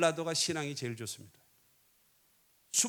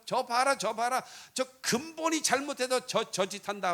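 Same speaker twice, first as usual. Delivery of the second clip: higher, louder mock finger-pointing; accusing the other side; 6 semitones higher, 4 dB louder than usual. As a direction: act out a partisan pouncing on an opponent's mistake. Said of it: "상대방은 잘못하면". (상대편을 헐뜯는 흉내)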